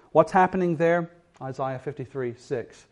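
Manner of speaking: ordinary delivery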